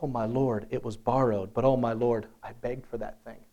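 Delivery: low, soft, understated lament; distressed student. Retold or imitated. Student confessing the axe was borrowed, low subdued dismay. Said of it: "So he's saying".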